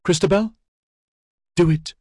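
pleading. A narrator's reading. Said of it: "she entreated".

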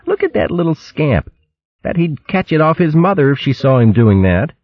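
put-on amused young creature, chuckling; hogmaid voice. A narrator's reading. Trimp voiced in story.

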